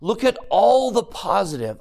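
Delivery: put-on a loving father lifting his child up; gentle Heavenly Father. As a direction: coax them to see all they can do. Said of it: "Heavenly Father doesn't come into your life and say".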